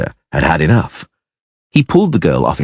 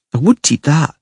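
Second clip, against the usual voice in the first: put-on grumbling child; 9 semitones higher than usual. A narrator's reading. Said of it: "she grunted".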